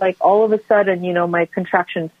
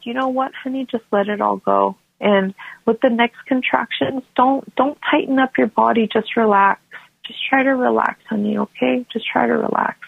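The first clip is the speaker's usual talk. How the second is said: imitated soothing husband; 4 semitones higher than usual. Husband soothing wife in labor.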